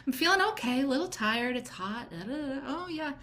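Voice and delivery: pleased surprise at being asked; imitating a client caught off guard; surprised client. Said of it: "I can hear the surprise in their voice".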